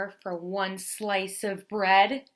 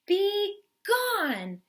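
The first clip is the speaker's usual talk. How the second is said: much higher, louder angry cry; roaring bear; 12 semitones higher, 4 dB louder than usual. Acted. Bear roaring at the mouse, angry shout. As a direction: roar it at the mouse. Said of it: "roared Bear".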